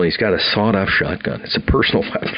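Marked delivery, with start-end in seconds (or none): 1.4-2.3 laughing. Real, not acted. Laughing at the colonel's gun.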